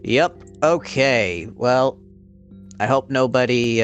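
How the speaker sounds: usual speaking voice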